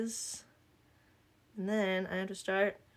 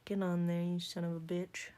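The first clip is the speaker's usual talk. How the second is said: lightly southern-accented muttered cussing; cussing out a stubborn thing, slight southern twang; southern trash talk. Real, not acted. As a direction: scold it with a touch of southern accent. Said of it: "when I shit talk it has a southern accent".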